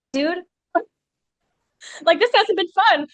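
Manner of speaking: dry, unimpressed delivery; deadpan. Retold or imitated. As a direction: say it flat and blunt.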